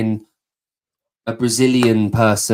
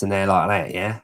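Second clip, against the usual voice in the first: East End Cockney; 4 dB quieter than usual. Shown as a demonstration. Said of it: "talking a bit like this".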